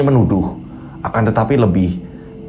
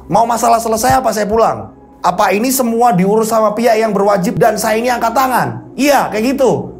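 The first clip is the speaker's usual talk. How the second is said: firm threat; 8 semitones higher than usual. Acted. Headman threatens the crowd.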